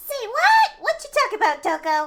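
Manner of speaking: terrible shrill, loud, swooping sing-song voice. Voicing a game character who questions Toko: terrible Monokuma voice. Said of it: "That was a terrible version of my voice impression".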